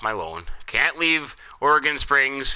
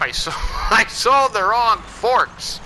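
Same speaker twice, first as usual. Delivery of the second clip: laughing in disbelief; 10 semitones higher, 4 dB louder, slower than usual. Real, not acted. Laughs at his mistake.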